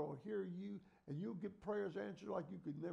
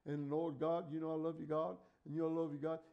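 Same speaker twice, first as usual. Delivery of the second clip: mocking rote prayer; 9 dB louder than usual. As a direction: ham up an empty repetitive prayer. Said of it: "Some people pray the same prayer every time".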